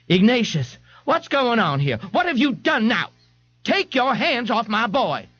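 high, fretful mother's voice; a flustered mother defending her son; Mrs Riley. Acted. Mrs Riley confronts the policeman about her boy, high and fretful.

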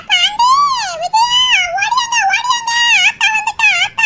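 high loud summons to the family; calling out. Acted. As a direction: yell for them to come running. Calling family to come running.

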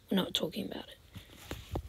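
soft hushed brush-off; whispered aside. Real, not acted. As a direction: mutter it under your breath. Hushed aside after a loss.

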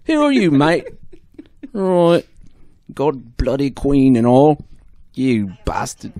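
loud, drawn-out cartoon caricature; Nigel Thornberry. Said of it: "go more Nigel Thornberry".

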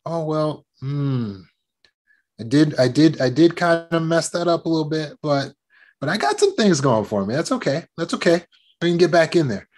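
accepting, then gently rallying; forgiving pep talk to yourself; encouraging self-talk. Shown as a demonstration. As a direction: cheer yourself on like a teammate. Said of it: "how you would cheer on your teammate".

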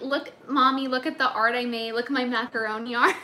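put-on excited little kid showing off art; childish kid voice. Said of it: "I like how it's like".

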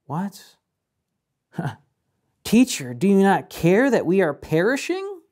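panicked plea, voice leaping up; panicked shouting. Acted. Disciples cry out to Jesus in the storm, panicked shouting. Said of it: "they panic and they shout out".

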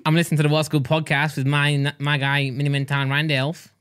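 lightly put-on Aussie accent; comic Australian impression. Shown as a demonstration. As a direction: keep the Australian accent, slowing at the end. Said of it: "How am I doing on the accent front?".

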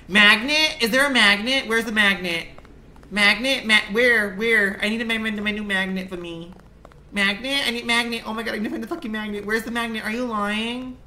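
high, loud, urgent calls of "magnet"; frantic searching. Real, not acted. Streamer frantically hunting the game's magnet, high and loud. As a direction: hunt for it in a frantic rush.

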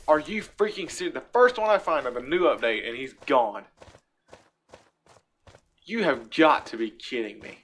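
loud exasperated outburst. Real, not acted. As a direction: vent the frustration loudly. Mob vanished, outburst.

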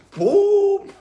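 sudden high, loud burst; loud boom. Acted. Coach showing buried feelings exploding, a loud high boom. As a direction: explode the word like a surprise.

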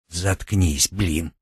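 hushed and soft, cutting him off. Acted. Girl hushes her boastful friend in the dark house, hushed. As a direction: shut him up under your breath.

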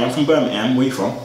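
a faint fake British accent; put-on British accent. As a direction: claim Birmingham in a thin British accent. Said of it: "That's not Birmingham accent".

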